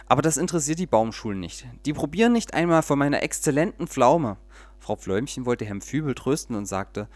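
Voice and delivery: lively storyteller reading aloud; audiobook-style story narration. A narrator's reading. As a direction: read it like a bedtime tale with little voices. Reads a children's story aloud.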